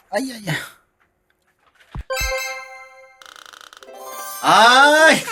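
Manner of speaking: high strained groan; pained groan. Real, not acted. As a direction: groan through the last rep. Groaning from exercise.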